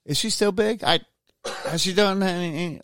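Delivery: high, startled disbelief; incredulous. Real, not acted. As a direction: ask in shocked disbelief. Incredulous question.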